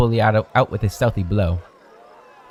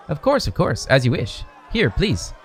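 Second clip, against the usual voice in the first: much higher, eager shopkeeper voice; fawning vendor; 4 semitones higher than usual. Acted. Vendor pleased with the gold, fawning and high. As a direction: gush over the sale.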